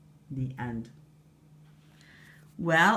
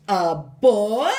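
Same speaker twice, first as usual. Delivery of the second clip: much louder, higher outraged cry; shriek; 4 semitones higher, 10 dB louder than usual. Acted. Queen shocked to see a boy, loud high shriek. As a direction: shriek in disgust. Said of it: "she shrieked".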